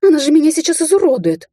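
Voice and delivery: high, loud squeal of alarm; panicked screech. A narrator's reading. She-wolf fears witch will maim her, screeching. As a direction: cry out for rescue, hysterically. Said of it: "заверещала волчица".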